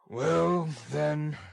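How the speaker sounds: surly robber's reply; a touch of grudging bluster; grudging ruffian. Acted. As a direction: give in gruffly as a brute. Sikes grudgingly gives way.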